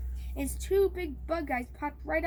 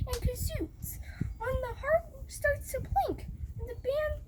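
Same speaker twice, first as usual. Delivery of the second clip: herald's proclamation; 9 semitones higher than usual. A narrator's reading. The yell boy ordering everyone to bow, high herald's proclamation. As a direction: announce the decree as a royal crier.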